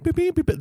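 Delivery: high-pitched rapid beeping; piercing little electronic beeps; imitated phone alarm. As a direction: mimic an alarm beep with the voice.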